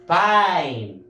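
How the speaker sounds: "pine" drawn out on a long "eye" vowel; long I sound. Shown as a demonstration. Teacher modelling the pattern word for class, stretched long I. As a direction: model "pine" slowly, falling at the end. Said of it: "you have to pronounce it as I".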